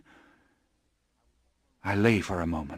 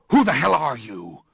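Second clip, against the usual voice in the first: higher, louder furious challenge; angry demand; 5 semitones higher, 4 dB louder than usual. Acted. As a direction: hurl the question at the creature. Narrator confronts creature in rage.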